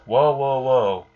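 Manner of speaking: the talking cat backing off quickly after Subaru nearly slaps it, startled whoa; mock startled whoa. Cat jumping away from Subaru's slap, calling out a startled whoa.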